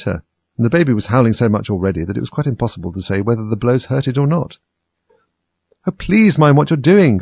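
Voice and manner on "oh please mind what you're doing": terrified cry. Acted. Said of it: "cried Alice ... agony of terror".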